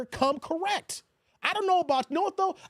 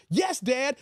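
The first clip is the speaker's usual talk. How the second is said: obedient son. Retold or imitated. Son giving in to his dad, with a mock shout. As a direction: snap to attention for dad. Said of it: "son answering father".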